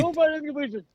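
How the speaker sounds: high mock yell at modest volume; imitated yelling. Quoting the bleacher guy's repeated plea, high-pitched mock yelling. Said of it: "who just kept yelling".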